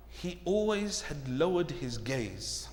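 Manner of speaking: very soft, low and slow; slow, subdued preaching; hushed revelation. Real, not acted. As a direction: let the key point land quietly. Key point softly, then repeated loudly.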